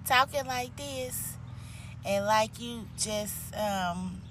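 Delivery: soft, slow, hesitant mumbling prayer voice; timid. Shown as a demonstration. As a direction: show how timid praying sounds, trailing and quiet. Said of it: "so timid".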